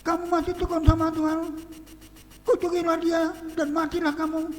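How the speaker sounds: mocking wife. Job's wife taunting her suffering husband, scornful. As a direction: needle him like a scornful wife.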